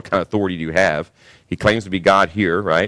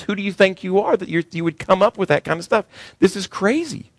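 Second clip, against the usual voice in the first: high, indignant crowd voice; incredulous objection; 7 semitones higher, 4 dB louder than usual. Acted. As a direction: act out the scoffers' disbelief. Voicing the Jews' outraged objection.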